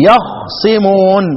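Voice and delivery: يخصمون slowly, خ without a vowel, ص undoubled; light sad. Shown as a demonstration. Teacher repeating Hamza's reading, slow light-sad recitation. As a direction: draw out yakh-simun with a single light ص in يخصمون. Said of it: "سكن الخاء وخفف الصاد".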